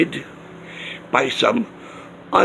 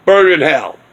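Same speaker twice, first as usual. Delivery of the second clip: "Burn in hell" said louder with a falling end, retold; louder retold curse; 5 dB louder than usual. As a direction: bark out "Burn in hell" like a parting shot. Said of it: "He walks away offended and he says".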